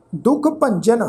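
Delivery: measured ਦੁਖ ਭੰਜਨ, stopping after ਭੰਜਨ; pause after phrase. Shown as a demonstration. Teacher shows where to rest, pause after ਭੰਜਨ. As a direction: read ਦੁਖ ਭੰਜਨ as one unit, then rest. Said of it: "ਭੰਜਨ ਸ਼ਬਦ ਤੋਂ ਬਾਅਦ ਵਿਸ਼ਰਾਮ ਚਿੰਨ੍ਹ".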